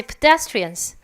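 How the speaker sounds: teacher models pedestrians, weak pe; light first syllable. Shown as a demonstration. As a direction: say pedestrians with pe barely heard. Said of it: "페도 크게 읽으시면 안 되고".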